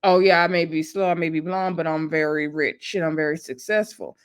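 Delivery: understated, low-pitched retort; a touch of seriousness under the joke; joking but serious. Retold or imitated. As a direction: retell a mild comeback, half joking, half serious. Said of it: "said it in a seriously, serious way".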